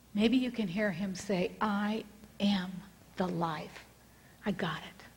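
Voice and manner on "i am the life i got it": gently hushed, with weighty pauses; understated inner voice of God; quiet divine voice. Retold or imitated. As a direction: let it settle softly as reassurance. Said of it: "in the quietness of your heart".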